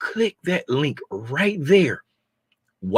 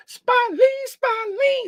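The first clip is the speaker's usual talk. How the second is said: hype call; much slower than usual. Real, not acted. Hyping a viewer's tip.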